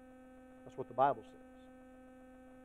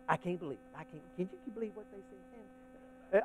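murmured complaint; 2 semitones higher, 10 dB quieter, faster than usual. Shown as a demonstration. Preacher shows the congregation how they murmur, muttered complaint. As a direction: mutter it fast, barely audible. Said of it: "y'all, that's murmur".

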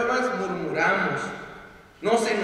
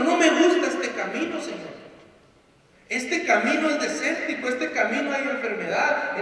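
higher, aggrieved grumbling at the Lord; complaining to God about the hard road, in a higher, aggrieved whine; bitter whining complaint; 4 semitones higher than usual. Acted. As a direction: whine it like a church member souring on God. Voicing a bitter church member's complaint to God.

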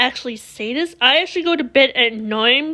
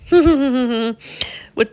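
laughing. Real, not acted. Laughs while boasting.

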